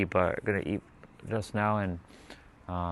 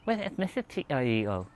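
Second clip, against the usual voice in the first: slight lisp, pitched up; 5 semitones higher, 4 dB quieter than usual. Shown as a demonstration. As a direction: ask it lisping. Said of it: "I'll talk like that for now".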